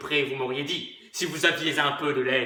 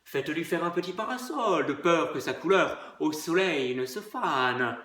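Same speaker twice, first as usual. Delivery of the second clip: soft, gentle and caring; tender; 4 dB quieter than usual. Acted. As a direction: coo it tenderly. (tendre et doux)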